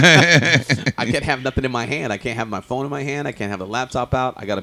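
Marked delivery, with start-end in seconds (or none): 0.0-2.1 slow, laughing through the words; chuckling at his own struggle; real laughter spilling into the line. Real, not acted. Laughing about reading subtitles.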